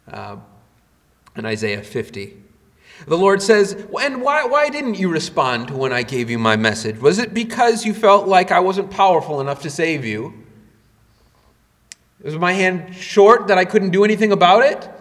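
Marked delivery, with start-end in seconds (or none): 4.0-14.9 pointed mock questions, building higher; sarcastic questioning. God challenging Israel over ignoring Him, sarcastic. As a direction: challenge them with rhetorical questions. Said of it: "use of sarcastic questions here".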